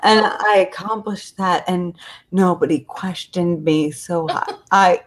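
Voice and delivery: dying breath. Acted. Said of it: "In his dying breath, he says".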